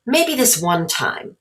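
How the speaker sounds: slow, hesitant concession; reluctant giving in. Acted. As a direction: give in slowly, unsure. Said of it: "Jamal hesitated".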